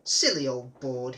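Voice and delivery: slow, loud scornful mutter. Acted. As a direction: sneer at the sign. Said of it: "he thought".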